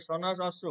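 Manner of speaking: সন্ন্যাস অশ্ব said as two separate words; careful Sanskrit split of সন্ন্যাস অশ্ব; pronunciation demo. Shown as a demonstration. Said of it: "সন্ন্যাস অশ্ব উচ্চারণ হবে".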